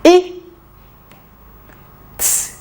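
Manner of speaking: segmenting I and T; teacher sounding "I" then "t" separately; sounds said apart. Shown as a demonstration. Teacher models each sound for the class, sounding it out slowly.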